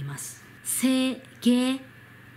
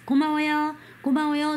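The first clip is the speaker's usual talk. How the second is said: model for repeating; 5 semitones higher, much faster than usual. Shown as a demonstration. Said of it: "使ってみてください".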